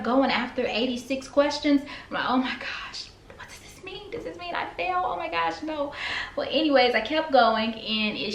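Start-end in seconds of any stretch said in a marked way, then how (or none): 2.3-5.9 high, fretful panic; replaying a rising test-day panic; panicked. Panicking when the test kept going.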